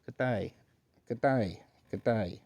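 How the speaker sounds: practising an Australian greeting; Australian accent. Pretend. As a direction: try out an Aussie accent. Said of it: "Isabella from Australia".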